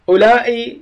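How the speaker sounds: أولئك with the long vowel before a glottal stop; stretched أولئك, hamza kept. Shown as a demonstration. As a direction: draw out the alif in أولئك, then sound the hamza. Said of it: "ممدود".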